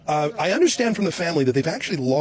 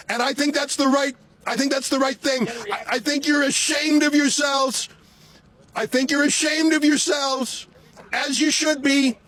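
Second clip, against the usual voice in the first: raised, higher voice pitched to carry; calling out; 7 semitones higher than usual. Real, not acted. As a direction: call out to people behind glass. Calling out to officers in car.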